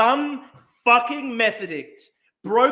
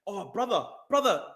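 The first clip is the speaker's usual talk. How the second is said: ordinary talk, nothing marked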